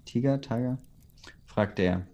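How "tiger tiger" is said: "Tiger, Tiger" as TEE-ger, then TIE-ger; first "Tiger" with ee, second with "ai", questioning; both pronunciations of Tiger. Shown as a demonstration. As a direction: weigh German "Tiger" against English "Tiger". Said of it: "Oder Tiger?".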